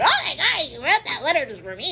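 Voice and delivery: high, overexcited mock viewer; gushing fan. Imagined viewer to the reader, gushing in mock excitement. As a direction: burst out like a starstruck fan, then come down.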